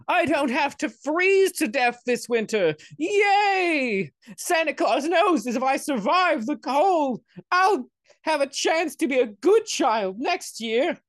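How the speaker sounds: put-on high-pitched, loud little kid; poor child rejoicing. Voicing poor child receiving coal.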